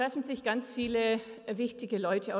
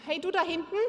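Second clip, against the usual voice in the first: raised voice calling to the back; 6 semitones higher, faster than usual. Real, not acted. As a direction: call across the room.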